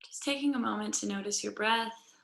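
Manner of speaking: calm, measured guiding voice with long pauses; guided yoga meditation. Real, not acted. Yoga teacher settling the class onto their mats, calm guided meditation. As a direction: lead them gently into noticing the breath.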